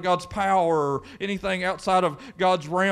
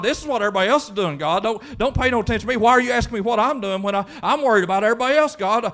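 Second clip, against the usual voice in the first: rushed protest climbing higher and louder; Elijah complaining; 5 semitones higher, 4 dB louder, faster than usual. Acted. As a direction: plead your case to God, building to a high wail. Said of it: "That's what Elijah did. He told God".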